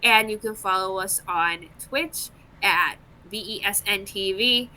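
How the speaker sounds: scripted promo read; announcer sign-off. Real, not acted. Host telling viewers where to follow the network, announcer read. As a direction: read it out as the show's outro plug.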